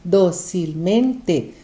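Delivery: "Docilmente" slowly in separate syllables, strong first; slow, chopped-up "Docilmente" for the class; syllable stress demo. Shown as a demonstration. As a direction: break "Docilmente" into slow beats from dó. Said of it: "é uma sobresdrúxula".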